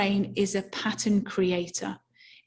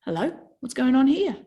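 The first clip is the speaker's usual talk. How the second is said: brain voice; 3 semitones higher than usual. Retold or imitated. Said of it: "your brain goes".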